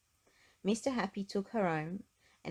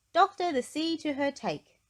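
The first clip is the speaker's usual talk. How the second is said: back-to-front speaker; 10 semitones higher, 7 dB louder than usual. Acted. Topsy-Turvy's back-to-front advice.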